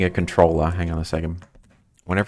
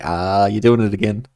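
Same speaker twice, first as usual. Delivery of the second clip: mock exclamation; 3 semitones higher, 6 dB louder than usual. Streamer retelling catching a friend's habit, mock exclamation. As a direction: call it out in mock complaint.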